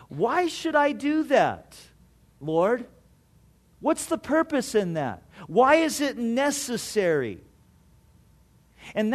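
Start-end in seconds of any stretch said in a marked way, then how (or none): 0.1-7.4 higher, indignant why questions; a hard-hearted believer arguing with the Lord, indignant; defiant questioning. Retold or imitated. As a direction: push back at God stubbornly. Hard-hearted person questioning God.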